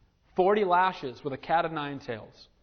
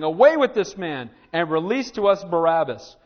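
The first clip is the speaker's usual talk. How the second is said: raised voice, emphatic crowd demand; crowd crying out; 7 dB louder than usual. Acted. Preacher quoting the crowd that rejected Jesus, crying out. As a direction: call it out like a mob. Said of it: "they all cried out".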